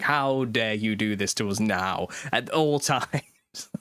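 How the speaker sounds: slow, theatrical mock outrage; mock indignation. Dad shaking his fist at the wind, mock indignation. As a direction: scold the wind in drawn-out mock fury. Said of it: "shaking my fist at the wind".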